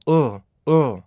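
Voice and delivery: 어 as a short voiced L, tongue on the palate; dark L sound. Shown as a demonstration. Teacher models the L sound, short dark L. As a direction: say "어" as a short, falling uhl. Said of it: "그냥 공기를 불어내면요".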